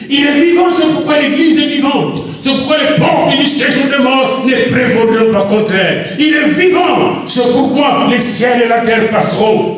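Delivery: emphatic preaching call. Acted. Pastor proclaiming the living church, emphatic preaching.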